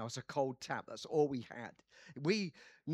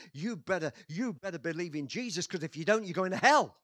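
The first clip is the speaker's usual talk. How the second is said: building warning; 7 dB louder than usual. Retold or imitated. Retold warning to workmates.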